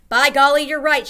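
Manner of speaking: loud, high delighted outburst; excited cry. A narrator's reading. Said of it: "she cried".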